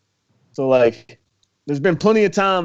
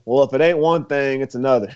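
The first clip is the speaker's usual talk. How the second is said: put-on light Southern accent; 2 semitones lower than usual. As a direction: toss the saying off in a mild Southern accent. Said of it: "this is a Southern accent there".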